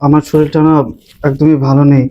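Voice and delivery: low, subdued excuse; feeling unwell. Acted. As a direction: plead sickness in a low voice. Husband pleads illness to wife.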